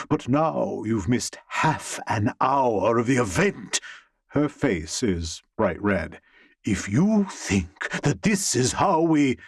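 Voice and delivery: irate manager berating an employee over broken glasses; angry boss scolding. Acted. Boss scolds the waiter who broke flutes and vanished, irate. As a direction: tear into him like a fed-up boss.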